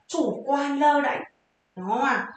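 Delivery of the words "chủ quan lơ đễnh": Chủ quan lơ đễnh spaced out very slowly, word by word; dictating Chủ quan lơ đễnh slowly; slow teaching read. Shown as a demonstration.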